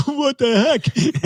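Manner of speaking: put-on high, slow strained child's voice; straining kid voice. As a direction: squeak it out like a tired little kid. Four-year-old straining at the end.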